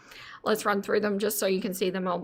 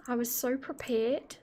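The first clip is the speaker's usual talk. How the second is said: slight New Zealand accent; a light Kiwi lilt on the vowels; 6 dB quieter than usual. Real, not acted. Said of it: "That sounded a little bit of a Kiwi accent".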